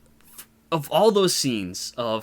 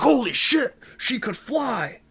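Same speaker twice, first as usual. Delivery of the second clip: high, loud astonished exclamation; drawn-out, hammed-up disbelief; mock amazement; 12 semitones higher, 5 dB louder, slower than usual. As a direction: play a thug gawping at the impossible. Acted amazement of the bullies.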